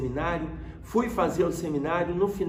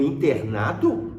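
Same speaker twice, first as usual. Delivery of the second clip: slow, louder questioning echo; incredulous echo; 5 dB louder, slower than usual. Retold or imitated. Father hearing he'll be admitted, incredulous. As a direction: imitate dad's disbelief, drawn out with a rise. Pai reage à notícia da internação.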